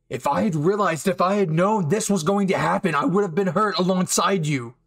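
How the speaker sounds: desperate explanation. Acted. Bakugo explaining he thought Eijiro died, desperate. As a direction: pour out the guilt, pleading.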